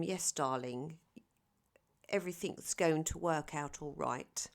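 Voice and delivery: a playful mock of a posh Londoner; posh London accent. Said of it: "I put on my posh London accent".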